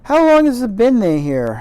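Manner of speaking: high, loud Yorkshire gardener jerking it out; gruff faux Yorkshire. Gardener jerking out a question, in loud faux Yorkshire. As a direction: blurt it in a terrible faux Yorkshire accent. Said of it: "my terrible faux Yorkshire accent".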